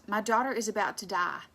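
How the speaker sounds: loud, urgent read-aloud plea; pleading. A narrator's reading. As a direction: plead it loudly, as narrated. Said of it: "Jairus pleads with Jesus".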